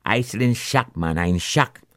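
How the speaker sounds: lightly voiced Grenadian girl; a broad Grenadian accent, sounding dazed. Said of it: "in she true Grenadian accent".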